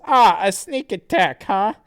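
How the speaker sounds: high, loud challenged hero; lightly hammed-up hero retort; Sonichu. Sonichu notices a sneak attack, loud heroic retort. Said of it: "Sonichu says".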